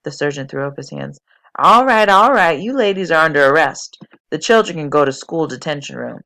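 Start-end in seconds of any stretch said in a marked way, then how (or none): 1.6-6.2 exasperated. Acted. Exasperated sergeant making arrests.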